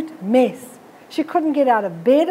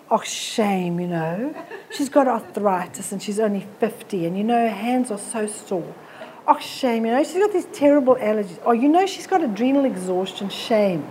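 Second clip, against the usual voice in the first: mock pity; 4 semitones lower, 4 dB quieter than usual. Mocking sympathetic friends.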